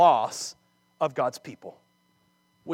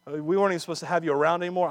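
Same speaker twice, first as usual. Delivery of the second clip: sarcastic thought; faster than usual. Retold or imitated. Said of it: "I don't know if David's thinking".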